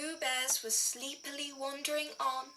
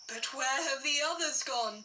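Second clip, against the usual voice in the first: alarmed; faster than usual. Acted. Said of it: "Daddy Bear cried".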